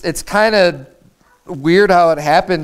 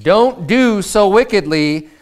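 pleading; 4 semitones higher, slower than usual. Retold or imitated. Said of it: "tries stopping him and telling him".

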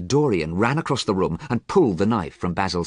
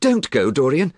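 raised, higher-pitched appeal; urgent plea; 7 semitones higher, 6 dB louder than usual. Acted. Painter begs young man not to leave, urgent. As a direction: press him to stay. Basil pleads with Dorian to stay.

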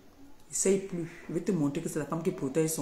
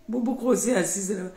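higher, louder jeering call-out; calling out Bouboukou, higher and louder with scorn; loud taunt; 5 semitones higher, 6 dB louder than usual. Real, not acted. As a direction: call her out mockingly, loud and high. Taunting a named rival.

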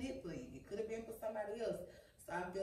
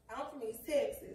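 slow, higher and proud; proud declaration; 4 semitones higher, slower than usual. Shown as a demonstration. Showing how proudly he says where he's from, a slow proud declaration. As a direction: announce it like a badge of honor. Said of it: "That's, like, a big thing to say".

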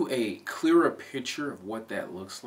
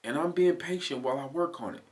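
gentle self-talk; faster than usual. Shown as a demonstration. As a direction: say it kindly, easing your own pressure. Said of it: "hear the tone in my voice change".

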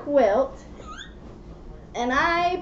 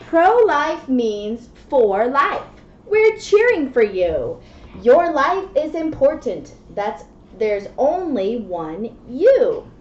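put-on reading to children. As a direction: read the rhymes gently to a child. Reads picture book aloud.

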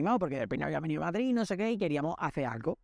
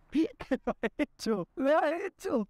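higher, laughing disbelief; 11 semitones higher, slower than usual. Retold or imitated. Seeing the song play, laughing shocked disbelief. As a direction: laugh it out, much higher, can't believe it.

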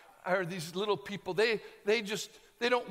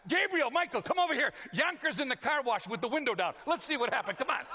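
higher, lightly voiced God; God calling angels; 4 semitones higher than usual. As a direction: call the angels over eagerly. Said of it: "I could just picture him in heaven".

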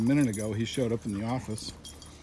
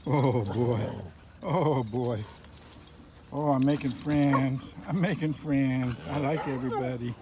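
happy dog voice. Retold or imitated. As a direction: play the dog, delighted to have friends.

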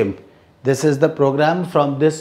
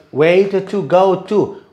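slow drill; 3 semitones higher, slower than usual. Shown as a demonstration. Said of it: "wait to go to repeated drill".

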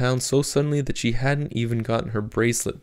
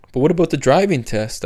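louder, raised protest; 3 semitones higher, 4 dB louder than usual. Acted. Cap objecting to Mrs Donnelly, raised protest. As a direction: push back in dismay. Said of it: "I protested".

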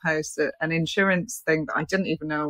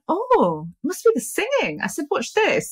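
excited; 11 semitones higher than usual. Retold or imitated. Proud retold answer.

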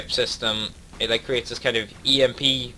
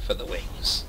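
whispered tribute; 7 semitones lower, 6 dB quieter than usual. Real, not acted.

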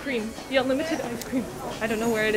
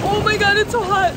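hot and complaining; 10 semitones higher, 3 dB louder than usual. Real, not acted. Complaining about the heat.

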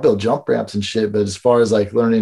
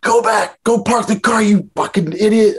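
retold yell at driver; 9 semitones higher than usual. Friends yell at him after the crash, mock shout. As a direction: bark it like a panicked friend.

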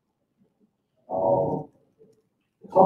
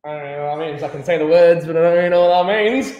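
mumbled, rushed-together pupil impression; mock a clueless student; lightly voiced baffled learner; imitating confused pupils; 3 semitones lower, much faster than usual. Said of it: "lots of people are like".

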